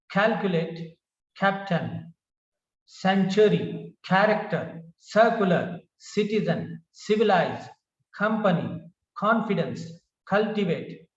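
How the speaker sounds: CALculate, CAPtain, CENtury: opening syllable stressed, then falling; stress on first syllable. Shown as a demonstration. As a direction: list drill, first syllable of each word from calculate to minister leads. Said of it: "the stress is on the first syllable".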